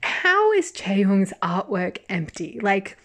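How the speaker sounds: loud, high, indignant outburst; furious rant. Retold or imitated. A fan ranting at the judgmental critics, loud and furious. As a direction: let the outrage pour out at the critics. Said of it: "And I'm like".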